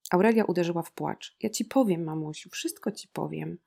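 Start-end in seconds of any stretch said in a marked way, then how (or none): none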